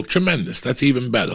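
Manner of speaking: imitating his own enthusiastic answer; mock delighted. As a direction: ham up how great it is. Happy reply to wife.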